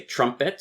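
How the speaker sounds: "trumpet" stressed on TRUM, light second syllable; stress pattern demo. Shown as a demonstration. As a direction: show stressed-unstressed in "trumpet". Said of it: "stress, unstress".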